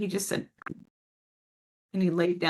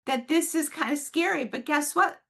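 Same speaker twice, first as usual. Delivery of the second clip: higher, lovingly encouraging; encouraging parent; 6 semitones higher than usual. Shown as a demonstration. Parent encouraging a scared child at bedtime, loving and upbeat. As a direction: cheer the child on with loving confidence. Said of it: "it is lovingly and compassionately".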